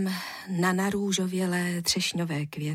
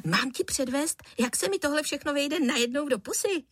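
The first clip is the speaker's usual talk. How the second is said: lightly voiced boy; 7 semitones higher than usual. A narrator's reading.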